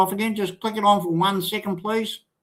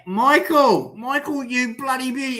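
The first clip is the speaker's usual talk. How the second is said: excited greeting; 9 semitones higher than usual. Real, not acted. Greeting guest joining the stream.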